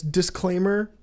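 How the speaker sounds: formal legal reading. Pretend. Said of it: "a thing that... just says".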